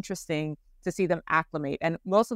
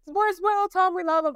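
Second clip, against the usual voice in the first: imitating British fans; 12 semitones higher than usual. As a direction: chirp it like an excited fan. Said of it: "they're like".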